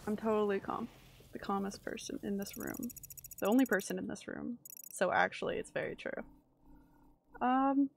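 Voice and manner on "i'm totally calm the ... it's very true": quiet, deadpan fake calm; forced calm. Real, not acted. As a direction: insist on calm, softly. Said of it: "I'm calm".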